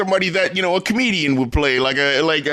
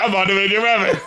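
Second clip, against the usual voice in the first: said through a laugh, imitating the dad; laughing mock quote; faster than usual. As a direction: poke fun at the line while laughing. Mocking the dad's reply.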